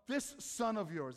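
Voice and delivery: slow, scornful, leaning on this; judgmental disdain. Retold or imitated. Preacher mocking a disowning parent, slow scornful disdain. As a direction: disown him with the word this. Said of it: "It's not even like, "When my brother comes home." No".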